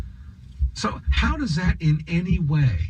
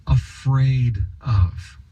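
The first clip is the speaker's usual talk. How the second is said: sarcastic scare quotes; much slower than usual. Real, not acted.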